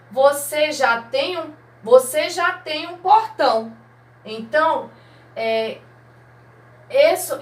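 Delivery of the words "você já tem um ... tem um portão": higher voice playing the mother; mother's reply. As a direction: read the mother's line with a lift. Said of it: "ela continuou". (voz mais aguda imitando a mãe)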